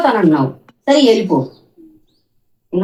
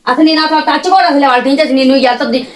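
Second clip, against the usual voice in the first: angry refusal; 5 semitones higher than usual. Real, not acted. Mother angrily refusing son.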